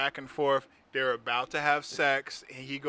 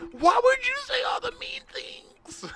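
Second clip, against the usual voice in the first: breathy high whisper, slowed; whispered plea; 4 dB louder, slower than usual. Retold or imitated. Retelling the movie, a high hushed whisper. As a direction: whisper it like a wounded lover. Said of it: "that's how they talked".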